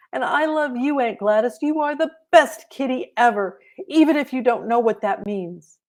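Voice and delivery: put-on high, sweet child voice; a hint of a doting kid; little girl to her cat. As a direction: coo it to the kitty. Holly talks to the cat.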